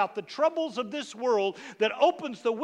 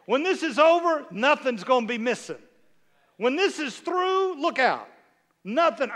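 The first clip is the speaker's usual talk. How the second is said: booming declaration; 3 semitones higher, 5 dB louder than usual. Shown as a demonstration. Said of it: "Look at James and say".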